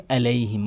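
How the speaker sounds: "আলাইহিম" with a plain a, no ain; common mispronunciation. Shown as a demonstration. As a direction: say "আলাইহিম" lightly without throat squeeze. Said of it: "আইনের উচ্চারণ ঠিক করবেন". (আইন ছাড়া "আলাইহিম")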